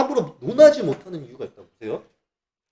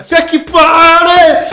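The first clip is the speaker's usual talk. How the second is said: slow, much higher, loud yell; mock ecstatic shout; 10 semitones higher, 10 dB louder, much slower than usual. Mock Moses in frenzy, slow loud high shout. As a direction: wail it like a frenzied chant. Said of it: "모세도 그러면 이러고 있었을 거 아니야".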